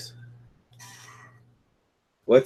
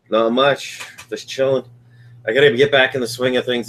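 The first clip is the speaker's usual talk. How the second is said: stuffy nose, under the weather; congested; 2 semitones higher than usual. Real, not acted. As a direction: talk through a blocked nose. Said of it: "If you guys can't tell, I'm pretty congested".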